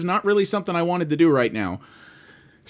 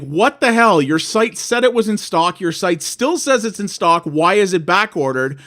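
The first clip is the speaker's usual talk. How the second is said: in a huff; 2 semitones higher than usual. Retold or imitated. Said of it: "called them up in quite a huff".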